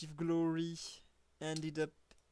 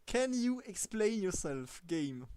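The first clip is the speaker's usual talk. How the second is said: louder mock scolding; 3 dB louder than usual. Real, not acted.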